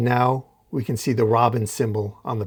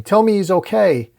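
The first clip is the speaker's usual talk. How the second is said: much higher, louder plea; retold yell; 8 semitones higher, 6 dB louder than usual. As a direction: yell it running in.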